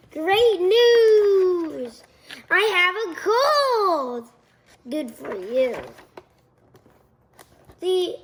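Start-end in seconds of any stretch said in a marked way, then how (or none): 0.1-4.3 excited. Acted. Gerald happily tells Piggy.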